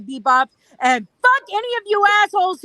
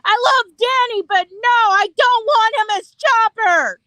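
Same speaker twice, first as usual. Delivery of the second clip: emphatic quote; 4 semitones higher than usual. Retold or imitated. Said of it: "to quote Matt".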